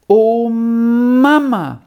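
high, drawn-out, loud call; lively outcry. A narrator's reading. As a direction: cry out to Mama with sudden animation. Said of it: "rief jetzt Paula mit ungewohnter Lebendigkeit".

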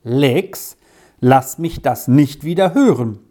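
a hint of a stern teacher; mildly mock the teacher's warning; strict teacher. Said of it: "mit ganz strengem Ton".

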